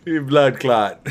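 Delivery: put-on weak Jamaican accent, slow; lightly faked Jamaican accent. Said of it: "don't mind my Jamaican accent".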